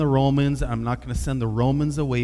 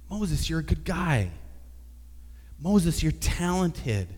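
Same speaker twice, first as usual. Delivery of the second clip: rising into a hyped, higher cheerleader voice; modern pep talk; 4 semitones higher than usual. Pretend. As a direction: gush encouragement like a coach to a kid. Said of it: "the conversation doesn't go that way at all".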